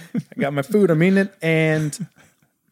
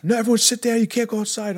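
higher-pitched mock teacher's order; lightly voiced strict teacher; 7 semitones higher, faster than usual. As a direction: imitate a teacher shutting kids down. Teacher ordering kids down, retold.

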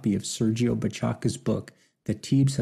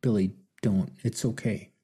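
gentle. Acted. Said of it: "Martin gently replied".

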